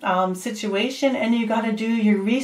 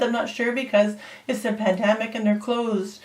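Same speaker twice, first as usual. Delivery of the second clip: ordinary delivery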